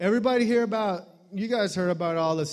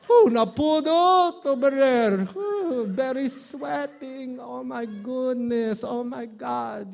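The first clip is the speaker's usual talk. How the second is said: wilt in the heat; overheated; 6 semitones higher, slower than usual. Acted. Comic acting wilted by the Philippine heat, high.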